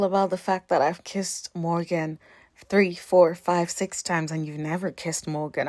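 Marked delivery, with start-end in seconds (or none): none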